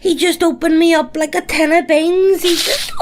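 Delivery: injured guy's tone. Retold or imitated. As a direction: imitate the battered fella outside the kebab shop. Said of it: "He uses the exact same tone of voice as this".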